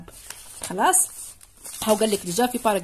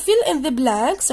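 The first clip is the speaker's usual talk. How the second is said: slow, louder, words apart; slow instruction read; 4 dB louder, much slower than usual. Shown as a demonstration. Teacher repeating the exercise instruction, slow and louder. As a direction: read it out slowly again for pupils. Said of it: "reading instruction".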